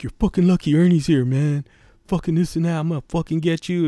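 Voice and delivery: high tough-guy threats; big camper threatening the kid, high mock menace; mock threatening rant.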